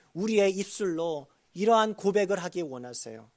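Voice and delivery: normal talking voice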